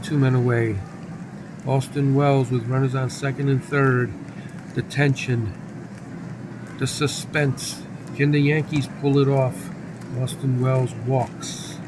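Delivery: measured sportscaster call; announcer keeping listeners on the action; baseball play-by-play. Pretend. Calls the baseball game live.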